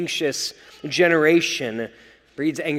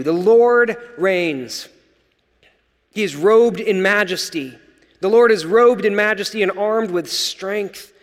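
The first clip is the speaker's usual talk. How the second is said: scripture reading; 4 dB louder than usual. Acted. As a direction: proclaim the verses to the congregation, solemn.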